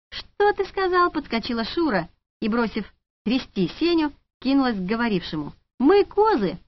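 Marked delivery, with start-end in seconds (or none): 0.1-1.1 high, slow, offended demand; indignant challenge. A narrator's reading. Offended saleswoman rounding on the man who insulted her. Offended woman confronts the guy. 5.8-6.6 high, louder, scandalised shout; outraged cry. A narrator's reading. Outraged saleswoman shouting at the insulting man.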